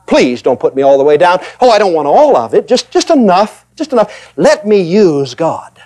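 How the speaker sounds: small, pleading mock voice, slowing at the end; mock believer begging for just a little; mock timid plea. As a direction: whine like someone afraid of going under. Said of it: "people have done is they say".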